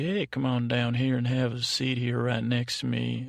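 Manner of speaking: lightly put-on Southern accent; a folksy Southern invitation to come and sit. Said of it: "if Southern accent freaks you out".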